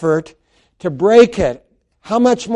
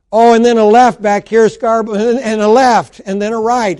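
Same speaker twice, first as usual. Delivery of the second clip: raised ringside call-out; boxing announcer; 4 semitones higher, 4 dB louder than usual. Acted. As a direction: call the punches like the ring announcer. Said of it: "sounds like a announcer on a boxing match".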